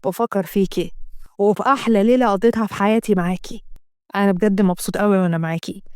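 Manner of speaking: satisfied man wrapping things up; lightly voiced contented lover. Assem answering, then leaving.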